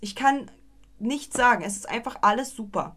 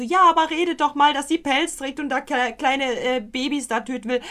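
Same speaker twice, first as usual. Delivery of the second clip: imagined objector; 4 semitones higher than usual. Acted. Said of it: "wer halt jetzt sagt so".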